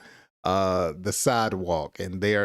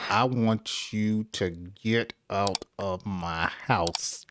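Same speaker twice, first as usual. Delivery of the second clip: calm; 3 dB quieter than usual. Retold or imitated. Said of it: "someone calmly tells someone to do something".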